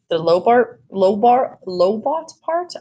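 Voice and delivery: understated misery in a question; mildly miserable. A narrator's reading. Child dreading the hearing aid part, mildly miserable. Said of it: "I said miserably".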